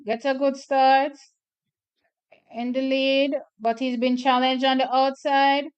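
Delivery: lively play-by-play of a sprint heat; live race call. Acted.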